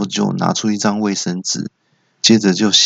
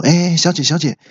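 mildly urgent; 3 semitones higher than usual. Acted. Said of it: "我就急着说".

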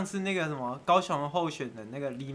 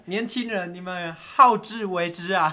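mock stern elder; 4 dB louder, slower than usual. Mock stern warning to youth.

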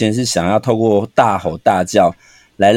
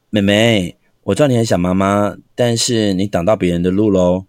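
gentle teacher; 3 semitones lower than usual. Shown as a demonstration. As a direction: explain kindly, no edge in the voice. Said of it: "还是和缓的，".

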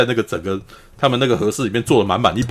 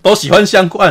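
louder, higher, laughing repeat; 8 semitones higher, 4 dB louder than usual. Real, not acted. Host laughing, repeats the friend's mushroom line. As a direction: crack up while repeating it.

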